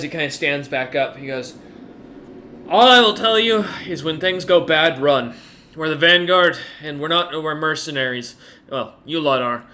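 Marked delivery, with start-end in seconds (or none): 2.7-9.6 a hint of a commander addressing troops; slightly emphatic in-character warning; lightly voiced gruff-talking commander. Game master plays the troll commander.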